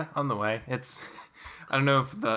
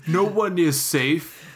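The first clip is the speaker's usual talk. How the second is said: horror trailer voice; 3 semitones higher, 4 dB louder than usual. Pretend. Mocking tagline, louder.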